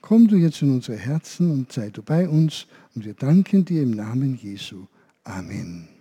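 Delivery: gentle spoken prayer to the Saviour. Acted. Leading children in prayer, gentle and earnest. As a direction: pray softly with the children.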